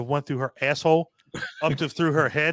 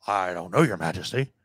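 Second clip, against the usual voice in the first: meek minion; 8 semitones lower than usual. Retold or imitated. Timid minion answering the king.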